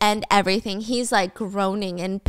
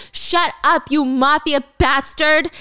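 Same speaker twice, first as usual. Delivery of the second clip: higher, louder angry retort; acted fury, louder and pitched up; angry outburst; 5 semitones higher, 4 dB louder, slower than usual. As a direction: lash out at an accuser. Acted attack, grabbing his collar.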